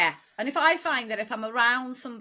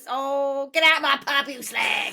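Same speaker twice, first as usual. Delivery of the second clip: slow, hammed-up Cockney telling-off; soap-opera East End London accent; landlady-style Cockney, drawn out; Cockney EastEnders; 3 semitones higher, 4 dB louder, slower than usual.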